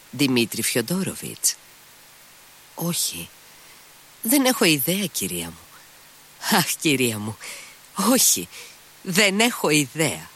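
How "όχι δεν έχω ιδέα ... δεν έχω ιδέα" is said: high, jittery outburst of impatience; nervous impatient cry. A narrator's reading. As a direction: snap it out nervously, pitch jumping up. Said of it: "φώναξε νευρικά και ανυπόμονα". (νευρική, ανυπόμονη κραυγή)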